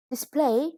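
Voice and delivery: display with PLAY stressed; teacher modelling the verb display. Shown as a demonstration. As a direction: hit the second syllable PLAY of display. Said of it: "with a stress on the second syllable".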